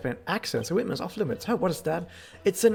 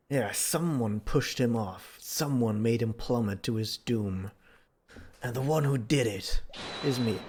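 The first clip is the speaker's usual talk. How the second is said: low, very slow and dramatic; slow ominous voice; 6 semitones lower, slower than usual. Acted. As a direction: drag out the dark confession.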